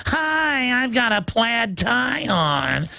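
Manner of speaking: high mock voice of a timid metrosexual; mocking effeminate guy. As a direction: go way up and simper the quote. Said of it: "little white loafers and little".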